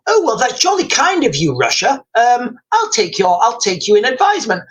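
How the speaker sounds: lightly put-on Oxbridge English accent; polite Iranian official with a mock upper-crust English accent. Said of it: "my Iranian will have a very English accent".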